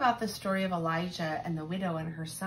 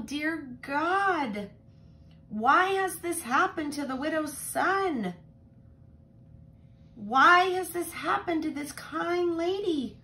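put-on higher, louder, begging God for the boy; pleading prayer; 8 semitones higher, 6 dB louder than usual. Elijah begging God to save the widow's son, pleading. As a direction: plead with God, voice lifted and urgent. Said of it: "He was praying".

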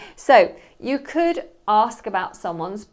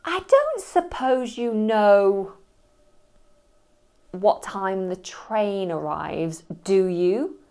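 slow, careful polite question; much slower than usual. Shown as a demonstration. Asking a stranger about the train, slow and polite. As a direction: ask it slowly and carefully. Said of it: "you could say".

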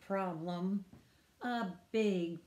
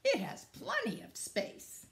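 high-pitched character voice; welcoming Beaver; 13 semitones higher than usual. Acted. Beaver tells friends there is room, high welcoming voice. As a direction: lift it high, inviting. Beaver keeps calling in story.

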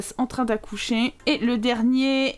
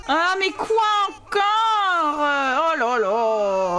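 weary drawn-out sigh; much slower than usual. Real, not acted. Babies keep crying.

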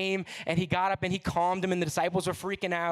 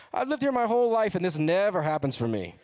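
excited friend; 2 semitones higher, 4 dB louder than usual. Retold or imitated. Friend in the front row tells the preacher, loud and excited. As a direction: burst out in amazed envy. Friend exclaims about the kids saved.

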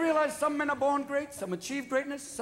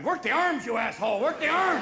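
Ashcroft; 3 semitones higher, 3 dB louder than usual. Retold or imitated. Ashcroft urging from the back.

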